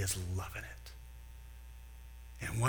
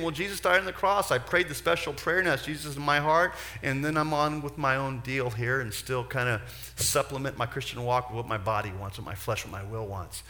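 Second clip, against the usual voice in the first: careless Christian; 3 dB louder than usual. Retold or imitated. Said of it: "kicking back and saying".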